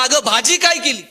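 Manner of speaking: acted husband yelling at his wife; loud yell. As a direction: yell it high and loud from right behind her. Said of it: "जोरात ओरडला".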